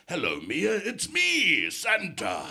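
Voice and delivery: a hint of booming Santa; lightly voiced Santa greeting. Santa greeting a little girl on the phone, lightly voiced. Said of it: "And I do the voice".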